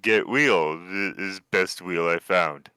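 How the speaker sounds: lightly voiced half-orc in halting speech; slow down into a hint of a simple half-orc. Half-orc showing the wheel Aldo wanted, lightly voiced and simple. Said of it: "a half-orc digging through".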